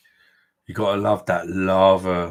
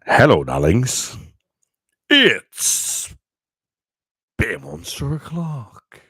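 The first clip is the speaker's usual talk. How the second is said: announcer voice; 4 semitones higher, 8 dB louder, slower than usual. Shown as a demonstration. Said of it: "I'm not gonna sound like an announcer now".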